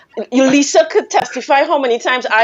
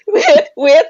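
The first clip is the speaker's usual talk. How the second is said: laughing; 9 semitones higher than usual. Real, not acted. Breaking into laughter.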